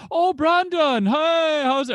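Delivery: hammed-up Rastafarian accent. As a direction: imitate a fake Jamaican accent answering the phone. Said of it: "be Wa-, Rastafarian".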